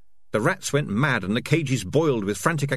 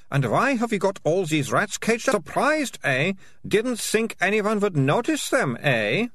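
put-on taunting girl; 11 semitones higher than usual. A narrator's reading. Malicia taunting the rat catchers.

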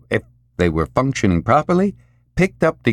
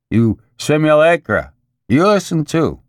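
commanding call; 8 semitones higher, 3 dB louder than usual. A narrator's reading. Maury addresses the simulacra.

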